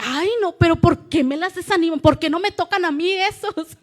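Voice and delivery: más agudo y fuerte, quejándose; queja exasperada. Retold or imitated. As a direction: medio en broma, quejándote. Queja, se ríe después. (queja exasperada medio en broma)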